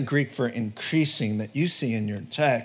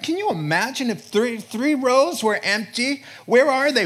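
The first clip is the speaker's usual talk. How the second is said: rising louder and higher; building intensity; 8 semitones higher, 4 dB louder than usual. Real, not acted. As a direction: build into an urgent cry. Preacher builds to a cry.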